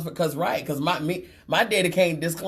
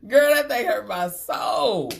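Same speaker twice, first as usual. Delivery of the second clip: mock wounded exclaim; 6 semitones higher, slower than usual. Real, not acted. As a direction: cry out in mock pain.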